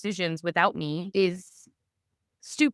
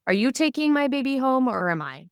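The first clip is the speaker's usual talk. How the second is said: retold challenge; 7 semitones higher, 3 dB louder, faster than usual. Retold challenge to hospital staff.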